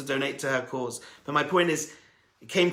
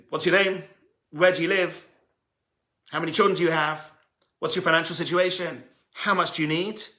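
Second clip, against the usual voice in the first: mock taunting; 3 semitones higher, 4 dB louder than usual. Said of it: "Almost taunting them".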